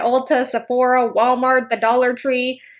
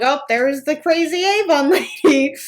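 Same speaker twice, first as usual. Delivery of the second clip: higher mocking groan, slowing on the end; mocking townsfolk; 4 semitones higher, 3 dB louder than usual. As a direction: sneer like neighbours spotting her coming. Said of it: "They're like".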